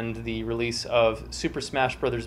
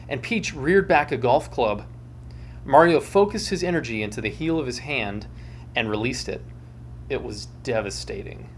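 storyteller reading with dramatic flair; dramatic story reading. A narrator's reading.

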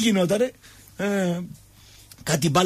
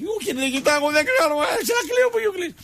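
mock wailing protest; 11 semitones higher than usual. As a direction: imitate a soldier's high-pitched squeal. Acted panicky reply of a fellow soldier.

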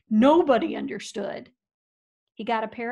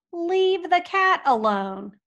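slow, louder, stern; firm repeated order; 6 semitones higher, 5 dB louder, slower than usual. Acted. Rancher repeating the order to his dog, slow and stern. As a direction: lay it down word by word.

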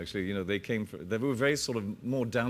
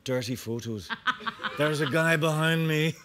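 trailer voiceover; 4 semitones higher than usual. Pretend. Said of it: "they need voice dubbing".

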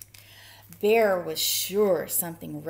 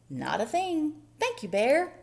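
high little mouse voice; polite mouse; 7 semitones higher, 4 dB louder than usual. A narrator's reading. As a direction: report cheerily as a mouse. Mouse voice reporting to bear.

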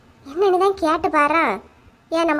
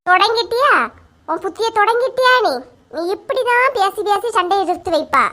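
higher, sharp exasperation; exasperated scolding; 4 semitones higher than usual. Acted. Lakshmi scolds the younger woman for starting trouble, higher and sharp. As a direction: tell her off for starting again.

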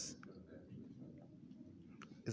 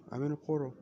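robotic altered voice; 5 semitones higher, much faster than usual. Real, not acted. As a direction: sound like a robot through the portal. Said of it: "Why do I sound like a robot?".

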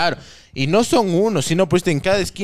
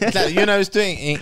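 usual speaking voice

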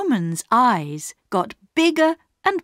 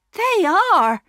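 happily; 11 semitones higher, 4 dB louder than usual. A narrator's reading. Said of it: "agreed his wife happily".

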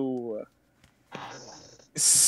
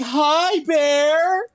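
high, loud sing-song hello to an animal; high cutesy greeting; 13 semitones higher, 8 dB louder than usual. Pretend. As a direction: call up to the bear like to a puppy. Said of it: "Are you saying "Hi, bear" out loud?".

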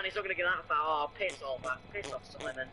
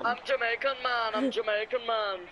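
higher-pitched mock Jamaican accent; 4 semitones higher than usual. Gamer showing his mate a Jamaican one, mock Jamaican accent. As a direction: put on a sing-out Jamaican accent. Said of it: "I can do a Jamaican one".

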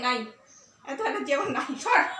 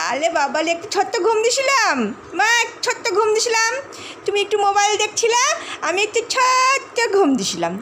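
higher pet voice speaking for dog; dog's voice; 4 semitones higher than usual. Pretend. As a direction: speak for the dog, lightly childlike. Voicing the dog's reply.

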